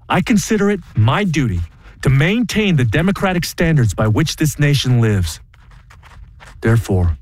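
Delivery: 郑重宣读声明，语调庄严; 像在公开场合朗读抗议书; formal statement read. Acted. Reads his formal statement.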